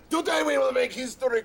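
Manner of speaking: gleeful laugh running into the words. Acted. Premier gloating to his general, laughing. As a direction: chuckle through it with delight.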